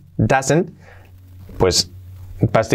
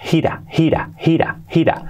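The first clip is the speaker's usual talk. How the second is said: gira, gira whispered; whispered cue; 4 semitones higher than usual. Shown as a demonstration. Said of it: "whispered linking cue".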